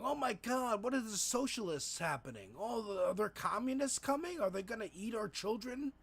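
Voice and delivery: mock panic. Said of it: "centrists are freaking out".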